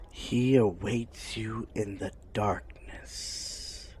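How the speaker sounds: ominous soft whisper. Acted. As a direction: breathe the warning quietly.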